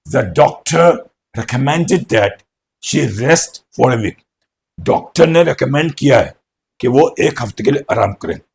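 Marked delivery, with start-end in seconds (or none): 0.1-4.3 slow, clear dictation of the sentence; slow model sentence. Shown as a demonstration. Teacher dictating an example sentence slowly. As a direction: spell it out slowly for students.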